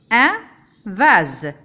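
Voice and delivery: vase with the S voiced as a buzzing Z. Shown as a demonstration. Teacher showing vase, the S buzzed as Z. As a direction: buzz the S in vase.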